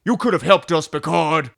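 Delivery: hammed-up accusing shout; loud reproach. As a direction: blame the captain loudly in a mock quarrel. Acted Picard and Raffi quarrel.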